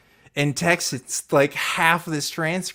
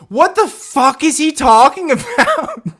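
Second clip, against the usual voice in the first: laughing disbelief; 11 semitones higher, 8 dB louder than usual. Real, not acted. Bursts out laughing at quote.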